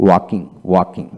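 ওয়াকিং with no L before the k; silent L. Shown as a demonstration. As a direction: say ওয়াকিং, leaving the L of "walking" silent. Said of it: "এল এর উচ্চারণ হবে না". (ওয়াকিং, এল উচ্চারণ ছাড়া)

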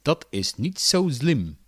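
slow quote with S and Z mixed up; Frits Wester. Retold or imitated. Teacher quoting a slip in pronunciation, swapped S and Z. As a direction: slowly swap the s and z sounds. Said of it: "Frits Wester krijgt zelfs dit over zijn lippen".

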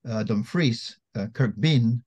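Dumfries and Kirkbean with the stress on the second syllable, dum-FRIES, kirk-BEAN; Scottish stress. Shown as a demonstration. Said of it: "second syllable for the Scots".

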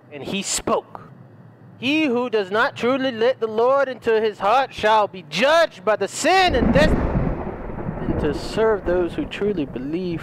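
mock-solemn holy book reading; drawn-out, sermon-like cadence; put-on scripture reading. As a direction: read it out like a preacher intoning old scripture.

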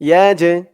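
ইয়া জে with a slight bouncing release on the j; qalqalah bounce. Shown as a demonstration. Teacher shows the echoing letter jim, ইয়া জে with a bounced j. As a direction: give the j in ইয়া জে a small push. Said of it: "একটু ধাক্কা খাবে".

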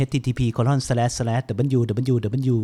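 slow, letter-by-letter spelling of the address; reading a web address aloud slowly; slowly spelled out. Shown as a demonstration. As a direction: spell each character out deliberately. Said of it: "ไม่ต้องพิมพ์...หรอกนะครับ".

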